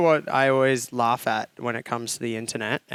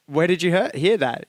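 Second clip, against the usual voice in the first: incredulous cartoon guy; 5 semitones higher, 4 dB louder than usual. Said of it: "and he's like".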